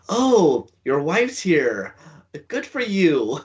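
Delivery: high, laughing tease; amused, teasing jab. Retold or imitated. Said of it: "Ethan's like".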